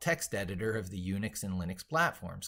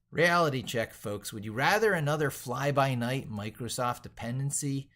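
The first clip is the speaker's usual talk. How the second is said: loud rhetorical challenge; 6 semitones higher, 7 dB louder than usual. Acted.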